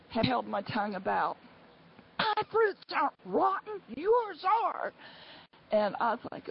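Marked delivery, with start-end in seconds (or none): 2.2-4.9 high, indignant mock yell; retold yelling. Angry woman answering my remark, high mock yell. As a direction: fire it back in a high imitation of her. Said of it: "she was screaming and yelling".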